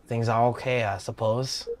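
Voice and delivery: lightly voiced Australian accent; Aussie-accented game character. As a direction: try on a casual Aussie accent. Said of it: "I could go Aussie".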